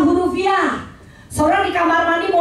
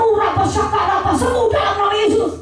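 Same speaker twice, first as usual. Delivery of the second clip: mock healing prayer; 4 semitones higher than usual. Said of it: "nggak tumpang tangan".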